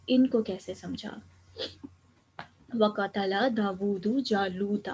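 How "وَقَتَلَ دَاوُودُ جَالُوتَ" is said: measured Arabic reading of وَقَتَلَ دَاوُودُ جَالُوتَ with full case endings; Quranic recitation. Shown as a demonstration. Teacher reciting the verse for students, careful and clear. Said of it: "میں پڑھ کے بتا دیتی ہوں".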